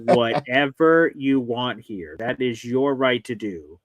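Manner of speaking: slow, deliberate emphasis; clear as possible. Real, not acted. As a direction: spell it out slowly for your co-host. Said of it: "make this as clear as possible".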